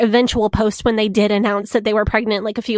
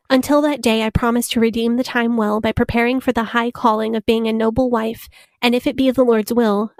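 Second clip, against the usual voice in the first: put-on Baptist girl voice. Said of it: "my Baptist girl voice".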